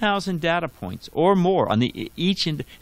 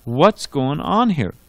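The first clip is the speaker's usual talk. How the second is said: louder, slow questioning of what's going on; skeptical challenge; 6 dB louder, slower than usual. Retold or imitated. Intelligent people pushing back, loud and slow. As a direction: stop and challenge it like a doubter.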